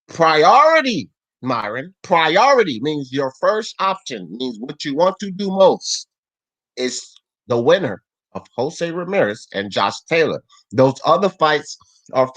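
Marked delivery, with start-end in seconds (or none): 0.1-10.4 over enunciating. Shown as a demonstration. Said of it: "again slowly".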